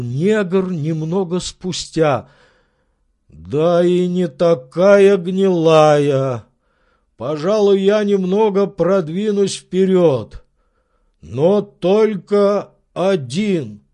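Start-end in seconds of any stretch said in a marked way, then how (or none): 3.3-13.8 slow, louder, thoughtful servant; servant reconsidering. Acted. Servant deciding to creep along the branch, slow. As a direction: weigh it slowly, then decide.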